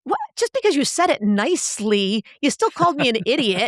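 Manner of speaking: mock-indignant, rising to a high yelled screw you; offended comeback. The speaker answers the fake-nice insult with mock outrage. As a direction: bristle and then snap back. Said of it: "You can say".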